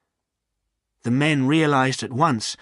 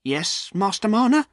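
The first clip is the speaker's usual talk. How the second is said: trembling a little; 9 semitones higher than usual. A narrator's reading. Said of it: "answered Jem, trembling a little".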